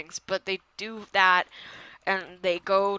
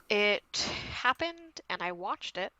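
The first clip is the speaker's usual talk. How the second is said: deadpan; 2 semitones lower, 8 dB quieter than usual. Real, not acted. Host summing up a boring episode, deadpan. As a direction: drop the volume, unimpressed.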